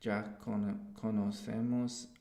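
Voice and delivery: careful, halting Spanish reading of a text; reading aloud in Spanish. Shown as a demonstration. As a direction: read the Spanish text steadily, word by word. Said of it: "I'm gonna read through the text".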